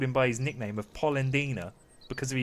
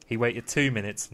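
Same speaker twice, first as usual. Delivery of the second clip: usual speaking voice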